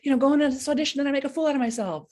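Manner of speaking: a hammed-up worried inner voice; mock panic. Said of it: "I'm like".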